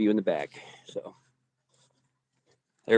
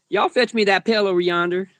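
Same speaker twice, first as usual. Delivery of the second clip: put-on a country Florida cracker accent; 6 semitones higher than usual. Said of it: "bust out my old Florida accent".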